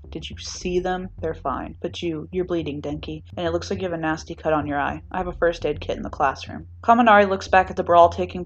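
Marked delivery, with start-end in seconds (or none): 0.1-6.7 gentle concern. Acted. Shinso gently tending bleeding Denki.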